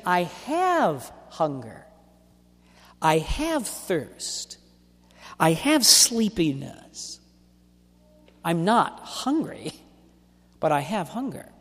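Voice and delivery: slow, with the word "have" leaned on each time; slow, deliberate stress on "have". Shown as a demonstration. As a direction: hit "have" in every phrase, slowly. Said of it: "They're saying".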